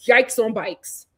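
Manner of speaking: low, slowed "Yikes on bikes"; catchphrase aside. Real, not acted. Same catchphrase said twice, second stretched.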